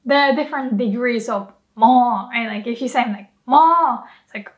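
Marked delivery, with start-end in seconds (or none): 3.5-4.0 loud, high, angry Mo. Shown as a demonstration. Teacher demonstrates an angry mo. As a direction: snap it in anger. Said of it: "you're angry".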